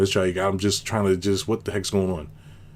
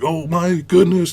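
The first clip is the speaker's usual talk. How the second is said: put-on much higher, slow, louder gasp of a scared child; mock terrified child; 9 semitones higher, 6 dB louder, slower than usual. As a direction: play the child panicking, drawn out.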